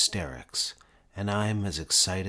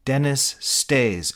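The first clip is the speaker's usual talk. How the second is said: echo imitation; 7 semitones higher, 8 dB louder, slower than usual. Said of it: "echoes Jadge".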